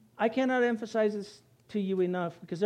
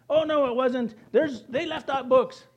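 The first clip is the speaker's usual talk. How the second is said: higher-pitched protesting doubter; mock objection; 5 semitones higher, 4 dB louder than usual. Preacher mimics doubters of the Bible, mock objection. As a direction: imitate an indignant objector.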